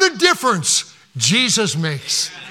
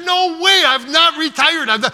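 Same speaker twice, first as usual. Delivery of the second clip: indignant protest; 6 semitones higher than usual. Retold or imitated. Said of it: "I'm starting to get a little bit mad".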